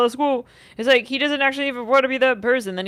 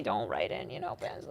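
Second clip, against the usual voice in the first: whispered; 13 semitones lower, 13 dB quieter than usual. Pretend. Quoting a saying, hushed.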